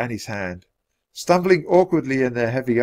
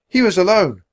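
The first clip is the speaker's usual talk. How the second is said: put-on high, light child's voice; little girl; 9 semitones higher, 7 dB louder than usual. A narrator's reading. Annie answering the centurion, girlish.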